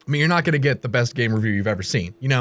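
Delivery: talking through a mouthful; words round a bite of food; chewing while talking. Real, not acted. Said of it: "I apologize for my eating".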